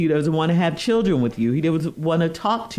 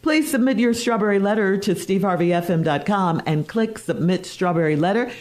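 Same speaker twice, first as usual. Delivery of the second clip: morning radio dj. Acted. Host intro segment.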